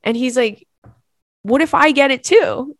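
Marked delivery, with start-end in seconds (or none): 1.4-2.8 mock worried husband. Husband voiced in retold story.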